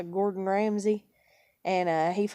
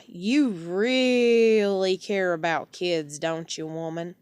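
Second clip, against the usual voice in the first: sarcastic; 3 semitones lower, slower than usual. Real, not acted. Sarcastic jab at landlord.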